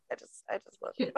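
soft whispered love; whispering. Real, not acted. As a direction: whisper it tenderly. Tender moment after tears.

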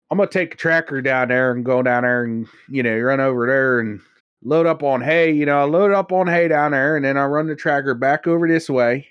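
put-on cousin's rural accent. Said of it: "nobody around me talks like that".

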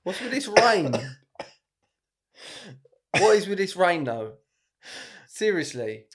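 high, loud mock Nigerian woman. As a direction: complain loudly as an improvised Nigerian woman. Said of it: "A woman from Nigeria".

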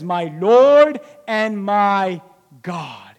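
very slow, fading to a hush on God; awed slow confession. Retold or imitated. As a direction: breathe it out in awe. Thomas worshipping in awe.

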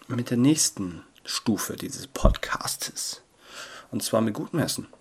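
very slow, playful whisper; ASMR whisper. Pretend. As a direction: whisper it, drawing out every word. Spielerische ASMR-Ansage des nächsten Teils. (langsames, spielerisches Flüstern)

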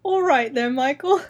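playful fake British accent; hammed-up British greeting; mock British accent. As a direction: chime in with a bad British accent. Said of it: "How do you do a British accent?".

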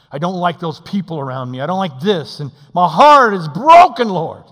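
builds to a loud high cry on broken; rising anguish; hurt man crying to God; anguished prayer. Acted. Voicing a broken-hearted prayer.

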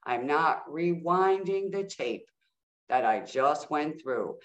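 slow, deliberate, firm refusal; measured and resolute, drawn out; empowered refusal. Retold or imitated. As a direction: retell standing your ground, word by word. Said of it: "I was in my power".

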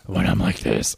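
pinched nasal Batman growl. Shown as a demonstration. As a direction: squeeze it through the nose. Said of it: "underscores my nasally voice".

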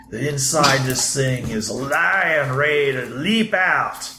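lightly voiced proud bike tinkerer; proud tinkerer Moby. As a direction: talk fondly of your machine, lightly in character. Game master plays Moby.

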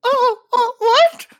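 loud, very high squeal of suspicion; hammed-up squeaky accusation; put-on jealous date. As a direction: play a jealous date in falsetto. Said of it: "She was putting on a voice".

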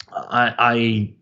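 halting, stammering start. Real, not acted. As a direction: stumble over the words, searching. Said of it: "so I'm just kinda stammering".

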